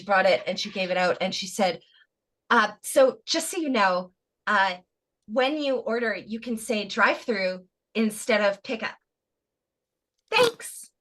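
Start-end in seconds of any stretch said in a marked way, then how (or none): 2.5-9.0 imitating a passive-aggressive drive-thru worker. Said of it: "just really passive aggressive". 10.3-10.9 high-pitched, falsely polite mock thanks; passive-aggressive. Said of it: "just really passive aggressive".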